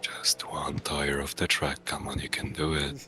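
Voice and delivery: low, breathy coaxing whisper; maniacal whisper. Pretend. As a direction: tempt them in a sly hush. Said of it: "your maniacal voice".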